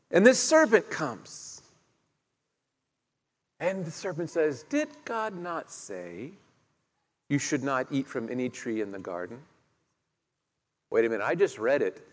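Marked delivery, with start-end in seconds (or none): 4.6-9.4 serpent's voice. Acted. Preacher voicing the serpent.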